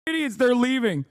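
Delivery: high-pitched, gleeful mock jeer. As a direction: jeer at them like a heckler. Mocking jeer at departing people.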